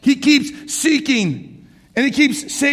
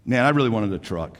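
put-on sulky teenager; 11 semitones lower, 4 dB quieter than usual. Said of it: "And they go".

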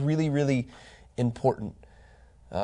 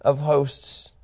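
loud, raised cry of praise; exalted proclamation; 5 semitones higher, 7 dB louder than usual. Acted. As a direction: call it out high and forceful, like seraphim worshipping. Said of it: "they're crying out".

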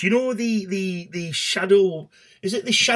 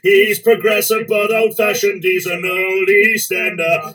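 lightly voiced cockney singalong; sing-talk it like an old East End pub song; cockney music-hall singer; 2 semitones higher, slower than usual.

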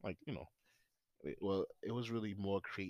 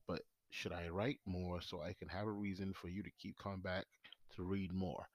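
stoned. Real, not acted. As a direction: read it out while stoned. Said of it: "I'm high".

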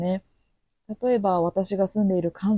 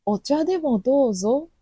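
sweet Kyoto offer; 8 semitones higher, 4 dB louder than usual. Retold or imitated. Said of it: "と言われたら".

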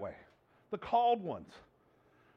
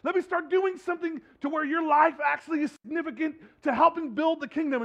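loud urgent pleading; 5 semitones higher, 3 dB louder than usual. Retold or imitated.

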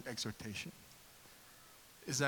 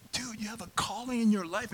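earnest appeal, pitched higher without yelling; reenacted preaching, raised pitch at conversational volume; calling out destiny; 7 semitones higher than usual. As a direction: urge a friend toward his destiny. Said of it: "calling out his destiny".

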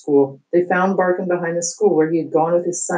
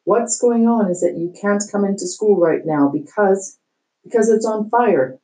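principal on bullhorn; 5 semitones higher than usual. Acted. Principal shouting through bullhorn.

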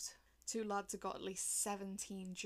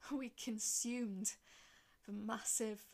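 breathless laughing whisper; slower than usual. Acted. High on cocaine, awed.

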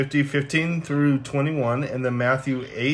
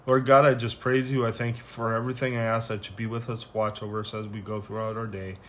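closing prayer; 2 semitones lower than usual. Acted. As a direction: pray gently to close the session. Closing prayer after reading.

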